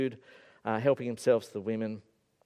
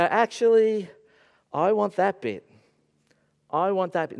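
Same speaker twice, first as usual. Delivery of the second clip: loud, high, pushy demand; heavy-handed demand; 6 semitones higher, 7 dB louder than usual. Acted. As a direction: throw your weight around, loud and insistent. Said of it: "they say it heavy-handedly".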